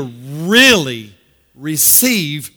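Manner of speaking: "really" loud and slow; weighty, drawn-out "really"; stress on really. Shown as a demonstration. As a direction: stretch out "really" with force. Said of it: "I want to emphasize this word".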